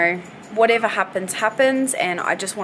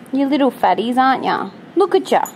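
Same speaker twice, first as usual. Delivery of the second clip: high, louder doting tease; affectionate pet talk; 5 semitones higher, 6 dB louder than usual. Real, not acted. Owner doting on her greedy dogs, high and fond. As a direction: fuss over the greedy pups.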